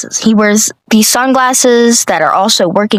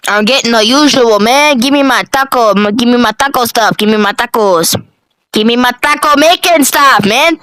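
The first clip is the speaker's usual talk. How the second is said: high Keith voice; 4 semitones higher than usual. Retold or imitated. Keith orders in story.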